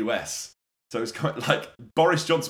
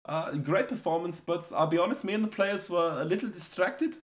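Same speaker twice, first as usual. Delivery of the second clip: mock manager press conference; 4 semitones higher than usual. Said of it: "In the press conference after the game".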